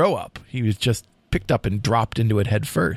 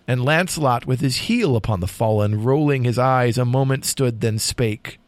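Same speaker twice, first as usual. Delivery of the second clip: dramatic poem reading. A narrator's reading. Host reads the final lines to co-host, dramatic poem reading. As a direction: read the tale as solemn storytelling verse. Reads poem's ending aloud.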